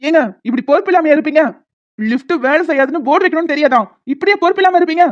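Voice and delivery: furious reproach; angry scolding. Acted. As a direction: scold the staff for carelessness. Angry at careless shop staff.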